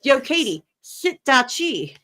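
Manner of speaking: mock casual greeting. Jokingly greeting Katie in Welsh, loud and drawn out. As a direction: holler the Welsh phrase like a street greeting.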